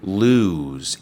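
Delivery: "Lose" with a long oo; teacher modelling "Lose" with a long oo; model pronunciation. Shown as a demonstration. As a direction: say "Lose" as looz. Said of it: "decimos lose".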